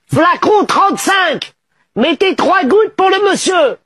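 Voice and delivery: doctor hollering orders to Fouzia; calling out. Acted.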